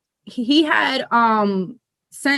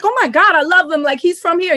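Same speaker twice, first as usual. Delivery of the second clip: higher, eager fangirl burst; excited fan gush; 5 semitones higher than usual. Retold or imitated. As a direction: gush about a favourite rapper. Retold fan gushing about rapper.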